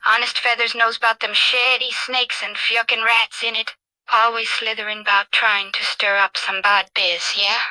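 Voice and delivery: lightly played vibrant Cockney; Cockney accent. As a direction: open lively, then chat on in a Cockney accent. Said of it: "In a thick and vibrant Cockney accent".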